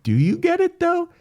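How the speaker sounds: high taunting god; mocking god voice. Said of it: "God is like".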